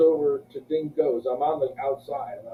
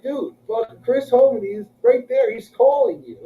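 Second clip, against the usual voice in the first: high, excited acting-out of friends; urgent retold relay; 9 semitones higher, 5 dB louder, slower than usual. Friends telling him Chris is calling, urgent. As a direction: push it up high, insisting he listen.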